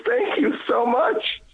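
high, slow thankful voice; drawn out, heartfelt thanks; grateful thanks. Retold or imitated. Hotel clerk thanking the man who tipped her, high and slow.

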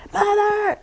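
high, loud call across the house. Retold or imitated. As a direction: shout it out high to be heard. Someone calls her from afar.

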